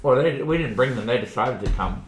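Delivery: talking with a pen in mouth; words round a pen held in the teeth. Real, not acted. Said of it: "Levi has a pen in his mouth".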